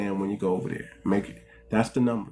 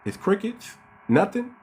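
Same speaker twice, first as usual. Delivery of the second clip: mock surprise; 7 semitones higher than usual. Real, not acted. Mocking silence after challenge.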